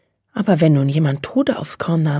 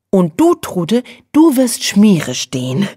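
cheerful; 4 semitones higher, 4 dB louder, slower than usual. A narrator's reading. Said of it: "erklärte Nelly fröhlich".

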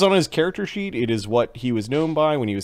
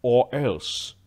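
lightly voiced official, low-key threat; official's threat; 4 semitones lower, 4 dB quieter than usual. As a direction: let the threat drop a little lower. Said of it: "man with a book comes over".

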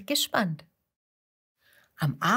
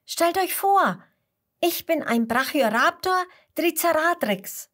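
higher, eager and bright; proud announcement; 9 semitones higher, 4 dB louder than usual. Acted. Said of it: "ruft Mats ihnen zu".

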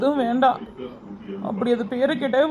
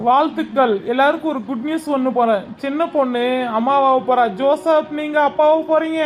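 loud, celebratory congratulations; excited announcement; 5 dB louder than usual. Acted. Doctor telling the family of a pregnancy, excited. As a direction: proclaim happy news to everyone.

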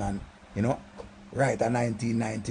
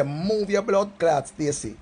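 cussing Stacy; 4 semitones higher, much slower than usual. Retold or imitated. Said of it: "I say".

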